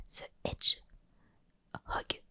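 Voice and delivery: slow whispered English accent, hammed up; poor English accent. Shown as a demonstration. Reading the game title, in a pitiful English accent. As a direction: stretch The Hedgehog in a clumsy English accent. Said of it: "j'ai un accent anglais pitoyable".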